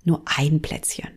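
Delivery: a lightly voiced, hushed temptation; tempting inner voice. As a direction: talk yourself into just one cookie. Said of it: "du denkst".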